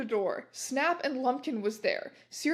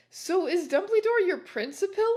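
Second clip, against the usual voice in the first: high, louder shouted question; mock shout; 8 semitones higher, 5 dB louder than usual. A narrator's reading. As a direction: call it out in a hammed-up yell. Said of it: "I shouted".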